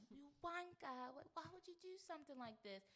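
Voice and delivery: mock British. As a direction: play a scolding Brit, half as a joke. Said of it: "say a British bad word".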